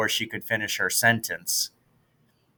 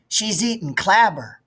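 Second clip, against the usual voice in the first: snotty classmate; 8 semitones higher than usual. Acted. Classmate sneering at lunch.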